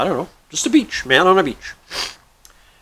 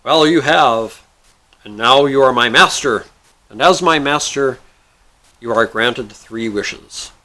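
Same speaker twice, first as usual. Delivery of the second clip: stately genie; 4 dB louder than usual. Acted. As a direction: pronounce it grandly, word by word. Genie grants the wishes.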